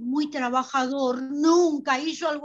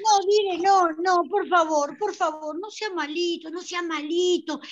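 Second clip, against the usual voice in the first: louder desperate begging; pleading; 3 semitones higher, 3 dB louder than usual. Acted. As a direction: beg the director not to throw her out. Madre suplica al director. (súplica desesperada, más fuerte)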